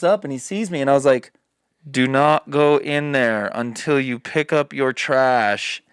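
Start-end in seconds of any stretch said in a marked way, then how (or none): 1.9-5.8 slow, firm, each word laid down; slow stern order. Retold or imitated. From the roof, telling the stranger to pick up his trash, slow and stern. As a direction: lay down the law slowly.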